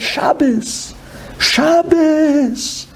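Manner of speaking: Shabbos from a whisper up to a high cry; growing emotional plea; rising cry. Retold or imitated. Sage's chant rising to tears.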